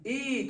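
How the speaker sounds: ای held a little longer; vowel drawn out. Shown as a demonstration. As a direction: stretch out the vowel ای. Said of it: "تھوڑا کھینچنا ہے".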